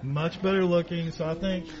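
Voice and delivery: speaking through a face mask; muffled by a mask. Real, not acted. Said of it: "can you hear me with the mask?".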